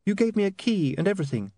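flustered, a touch anxious; nervous young woman explaining herself. A narrator's reading. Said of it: "said Saccharissa nervously".

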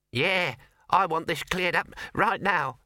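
high, slow, squeaky mouse demand; a tiny mouse squeaking a demand; squeaked. Acted. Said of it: "squeaked the mouse".

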